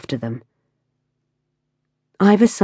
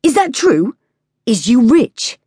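high, loud persistent taunt; pushy street kid; 8 semitones higher, 5 dB louder, slower than usual. A narrator's reading. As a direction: keep pressing him, grinning. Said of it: "Lucas persisted".

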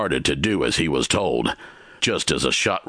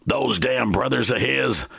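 shouted; 9 semitones higher than usual. A narrator's reading. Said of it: "the stranger shouted".

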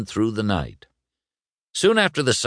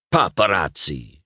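mild mock shout. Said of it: "shouted Guido".

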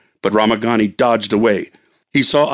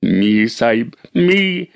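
calling Ramagani; slower than usual. Acted. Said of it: "he called".

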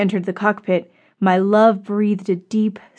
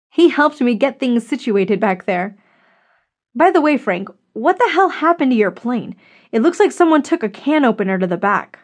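higher-pitched woman in dialogue, incredulous question; a touch of lively disbelief; lightly voiced Susan; 4 semitones higher than usual. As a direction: lightly lift the voice for a puzzled friend.

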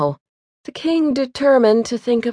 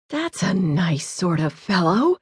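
exclaiming; 3 semitones lower, 5 dB quieter than usual. A narrator's reading. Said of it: "he suddenly exclaimed".

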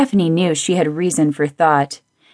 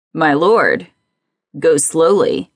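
husky voice; slower than usual. Acted. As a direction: breathe it out huskily. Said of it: "said a husky voice".

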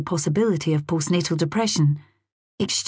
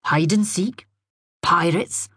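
enthusing; slower than usual. A narrator's reading. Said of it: "enthused Jamie".

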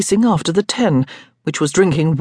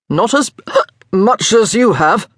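tipsy retort broken by a hiccup; 5 semitones higher, 4 dB louder than usual. A narrator's reading. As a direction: point it out, then hiccup mid-line. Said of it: "but he hiccuped when he said it".

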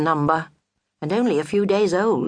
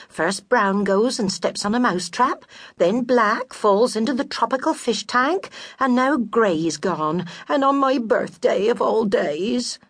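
a hint of a weary, put-upon widow, a bit higher; lightly voiced grieving widow; 6 semitones higher than usual. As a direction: tell her woes with mild self-pity. Narrator voices Mrs Gray.

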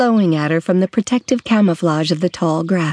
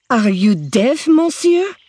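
hissed; 6 semitones higher, slower than usual. A narrator's reading. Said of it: "she hissed at him".

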